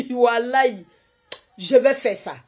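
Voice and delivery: laughing promise. Retold or imitated. Colleague promising with a laugh to pray. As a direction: swear it with a laugh. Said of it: "Elle a dit".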